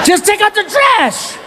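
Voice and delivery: high, slow, fed-up demand; exasperated. Retold or imitated. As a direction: drag it out, done with him. Fed-up dad to son.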